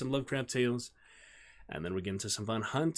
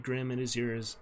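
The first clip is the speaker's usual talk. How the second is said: ordinary delivery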